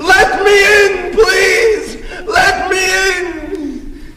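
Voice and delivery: drawn-out, slow pleading yell; long, wailed plea to be let in. Retold or imitated. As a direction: act out a kid yelling at a locked door. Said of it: "knocking and yelling".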